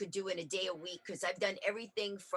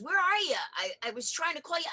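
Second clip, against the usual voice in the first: put-on boyfriend calling; 8 semitones higher, 3 dB louder, faster than usual. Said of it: "he goes".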